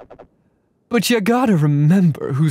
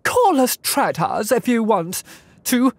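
character voice; 4 semitones higher than usual. Acted. Voicing game character lines.

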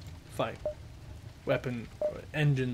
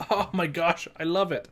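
higher, giddy with delight; excited laughing; 4 semitones higher, 6 dB louder than usual. Real, not acted. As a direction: laugh out the joy. Delighted at loot.

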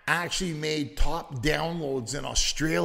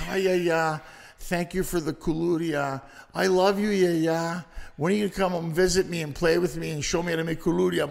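lightly voiced little girl; faster than usual. Daughter charming her grandmother on the phone, light child voice. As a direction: play the granddaughter charming Yaya. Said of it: "she goes".

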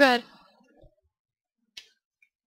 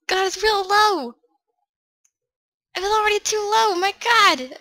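exasperated disbelief; 7 semitones higher than usual. Real, not acted. Startled complaint about game volume.

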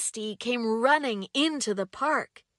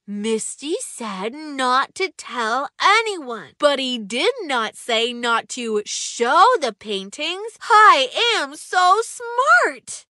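put-on a boy grinning to himself at his clever plan; smug, smiling; 6 dB louder, slower than usual. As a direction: gloat over your clever loophole. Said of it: "he thought with a smile".

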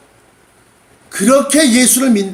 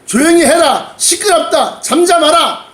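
angry scolding; 6 semitones higher than usual. Acted. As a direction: scold him into silence. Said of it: "막 야단을 치는 겁니다". (야단치는 큰 소리)

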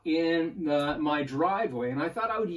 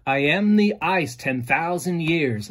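poem recital; 4 dB louder than usual. Shown as a demonstration. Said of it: "Listen to this".

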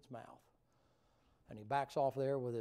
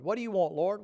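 high, loud, eager question; eager call to God; 6 semitones higher, 11 dB louder than usual. Acted. Worshipper asking the Lord, loud and high.

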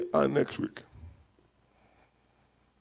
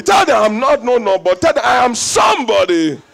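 louder, calling out to the whole room; rousing shout; 2 semitones higher, 5 dB louder than usual. Acted. Preacher rallying the congregation to proclaim they matter, shouting. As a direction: make them shout it back to you.

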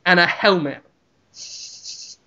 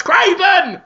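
high, slow bellowed insults; Ramsay yelling at the owner through the door, high and slow; furious shouted insults; 8 semitones higher than usual. Acted. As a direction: hurl every word at the shut door. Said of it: "and he shouts".

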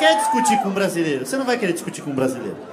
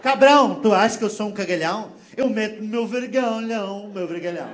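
mock Portuguese quarrel; 2 semitones higher than usual. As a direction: pick a fight like a Lisbon local. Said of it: "o próprio português, discutindo". (português brigando com sotaque)

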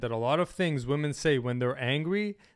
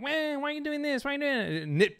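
mocking whiny woman; 12 semitones higher than usual. Mocking a nitpicking woman complaining at him, high whine. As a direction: parody a whining complaint. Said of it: "a woman being like".

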